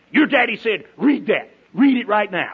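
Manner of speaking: lightly hammed-up stern command; mock bossy order. Announcer joking to daughter about her father's letter, mild mock bossy order. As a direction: playfully bark the order like a strict messenger. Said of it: "like that, you know".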